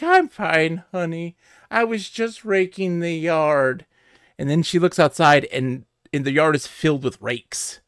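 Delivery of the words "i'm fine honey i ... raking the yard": a hint of a sweet old grandma, slow; lightly voiced granny, falsely innocent. Grandma in the ad reassuring her granddaughter, lightly voiced. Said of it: "She's like".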